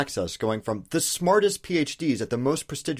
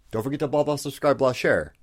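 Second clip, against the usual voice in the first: mock outro blah; 3 dB louder than usual. Parodies the usual outro plea.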